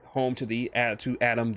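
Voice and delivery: normal talking voice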